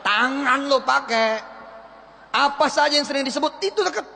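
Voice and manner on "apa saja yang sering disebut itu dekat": with greget. Shown as a demonstration. Coach drilling the slogan, fired-up. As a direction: say it with passion and conviction. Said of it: "Usahakan ngomongnya pakai greget".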